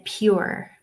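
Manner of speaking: "pure" with a strong final R; Irish pronunciation. Shown as a demonstration. Teacher giving an example word, strong Irish R. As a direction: sound the R ending "pure" strongly. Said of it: "R at the end is pronounced pretty strongly".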